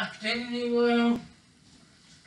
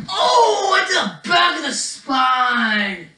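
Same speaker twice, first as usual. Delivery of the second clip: mock ringside commentator reacting to a blow; excited play-by-play; 3 semitones higher, 3 dB louder than usual. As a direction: cry out at a big wrestling hit. Mock wrestling commentary, big hit.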